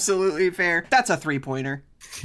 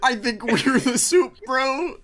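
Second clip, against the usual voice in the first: bro voice; 6 semitones higher, slower than usual. Retold or imitated. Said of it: "quoting the bit".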